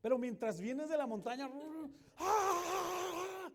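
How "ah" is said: much higher, louder fearful scream. Shown as a demonstration. Rider screaming in fear coming down the coaster. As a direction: shriek coming down the drop. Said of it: "vienes gritando de miedo".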